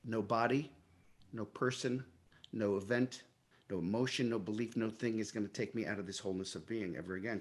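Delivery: soft, low inner resolve; said to himself. Retold or imitated. Actor making a private vow to himself, soft and low. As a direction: quietly vow it to yourself, low. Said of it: "And I said to myself".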